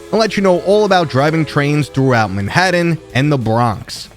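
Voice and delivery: put-on loud brash New York accent. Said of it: "I'm gonna ham up my New York accent".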